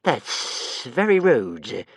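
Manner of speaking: very slow offended creature voice; a hint of a wounded monster; hurt hiss. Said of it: "it hissed eventually, rather hurt".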